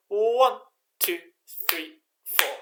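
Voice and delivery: count-in. Shown as a demonstration. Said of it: "And I'll count you in".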